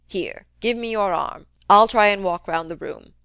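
put-on a crusty old man needling his nephew, loud; gruff old uncle. Old uncle goading nephew Fred about the rumour, crusty taunt. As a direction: jab at him like a sly old miser.

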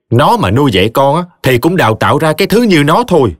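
tough-talking friend. Acted. Khải telling Triệu he'd kick her out, indignant. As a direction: boast how you would handle her.

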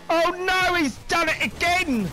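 high, loud dramatic cry; mock commentator dismay. Gamer narrating his own blunder, mock commentator dismay. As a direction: call it like a despairing sportscaster.

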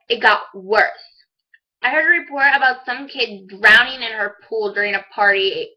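emphatic acted recounting of bad news; dramatic monologue recital. Monologue character recounting the news report, mildly dramatized. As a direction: recite the awful list with stage emphasis. Performs a middle school monologue.

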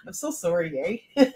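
laughing Canadian apology, rising at the end; playful Canadian-accented apology; mock Canadian. Shown as a demonstration. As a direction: ham up a Canadian accent through a giggle. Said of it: "Like the Canadian, like".

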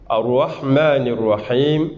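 slow tajwid recitation; slow Quranic recitation. Shown as a demonstration. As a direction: recite Ar-Rahman Ar-Rahim slowly and melodically. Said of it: "Le Him, pour celles qui ont déjà appris".

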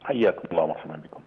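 tinny voice over the telephone line; phone voice. Real, not acted. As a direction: speak as if heard through a phone. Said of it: "ينضم إلينا عبر الهاتف".

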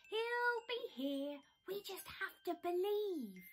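high, eager exclaim; bursting with belief. Acted. Bear exclaiming to his friends. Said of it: "Bear exclaimed".

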